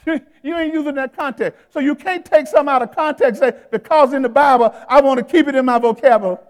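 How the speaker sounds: loud preacher making a point; forceful preaching. Real, not acted. Pastor corrects an excuse for cursing, forceful preaching. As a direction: raise the voice to the congregation.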